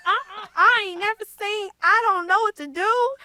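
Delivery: high-pitched racing thoughts; flustered panic. Retold or imitated. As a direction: relive panicking over sudden money. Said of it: "so many things are running through my head".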